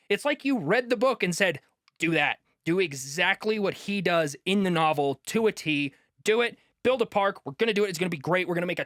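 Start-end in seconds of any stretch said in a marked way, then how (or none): 2.0-8.8 mock eager boss. Mocking a company's eager plans.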